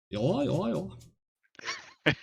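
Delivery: high nasal yeah yeah; lightly voiced nasal friend impression; nasal imitation of friend. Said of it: "I just go full nasal on him".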